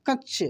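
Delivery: कच्च with the doubled च held and pressed hard; कच्च, weight on the joined च; stress on च. Shown as a demonstration. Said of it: "च पे जोर लगेगा".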